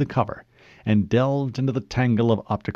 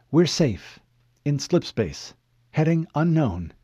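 higher-voiced AI with a touch of weariness; weary AI; 5 semitones higher than usual. Cortana reports over the comm, a touch weary. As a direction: report higher, lightly tired. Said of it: "her voice sounded tinged with weariness".

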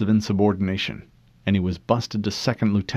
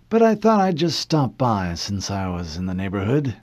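put-on old admiral voice; 3 dB louder than usual. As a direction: play the stooped old admiral, casual.

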